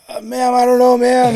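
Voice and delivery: high, loud recruit reply; flustered recruit. Retold or imitated. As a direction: imitate a recruit sounding off helplessly. Retold recruit answering a yelling deputy.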